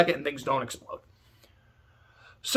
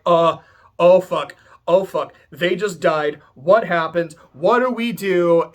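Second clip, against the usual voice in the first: louder panicked babble, slow at the end; flail, freaked out and loud; mock panic; 4 dB louder than usual. The family reacts to two deaths, louder mock panic. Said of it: "And they're like".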